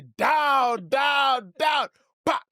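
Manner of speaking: high shouted commands; police shout. Retold or imitated. Retelling the security police tasing the cheater, shouting. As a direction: bark down like a cop. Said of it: "You hear".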